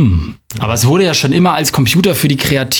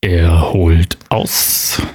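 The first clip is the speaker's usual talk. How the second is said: lower, slow golf commentary; hushed golf commentator; 8 semitones lower, much slower than usual. Acted. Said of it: "wie so ein Golfkommentator".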